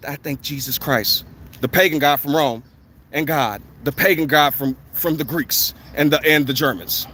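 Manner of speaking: low, subdued imitation of a thank-you speech; mock acceptance speech. Mock award speech by album artists.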